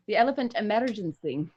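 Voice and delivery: mild Scottish accent, elephant emergency; a light Scottish lilt on elephant emergency. Shown as a demonstration. Voice actor shows his Scottish phrase, mild Scottish accent. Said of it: "my Scottish accent".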